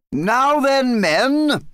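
high, loud rallying call; calling out orders. A narrator's reading. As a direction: hail the troops across a courtyard. King addressing his guard in courtyard.

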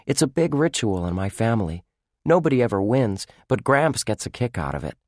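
lightly voiced young boy; brightly explaining as a boy; boy's voice. Lucky explains the family ritual.

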